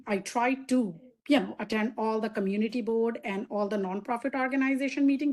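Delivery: ordinary talk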